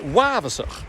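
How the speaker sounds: wavasach with the second vowel drawn out long; lengthened second vowel. Shown as a demonstration. Coach mocking the worst error, second vowel drawn out long. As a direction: stretch the middle vowel of wavasach, the worse mistake. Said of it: "with a lengthened second vowel".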